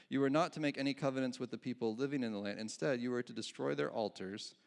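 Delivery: fast, fluent reread with stress on not; corrected reading. Real, not acted. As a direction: rattle off the corrected verse quickly. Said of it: "oh, sorry".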